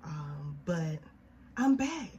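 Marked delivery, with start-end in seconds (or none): 1.6-2.1 excited. Real, not acted. Excited podcast return announcement.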